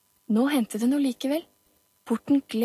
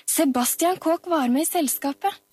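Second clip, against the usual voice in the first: put-on raised, high-pitched boy's call; excited, higher-pitched exclamation; eager child's shout; 6 semitones higher than usual. A narrator's reading. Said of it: "ropte Oliver".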